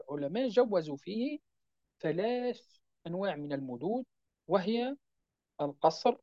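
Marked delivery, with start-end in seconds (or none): none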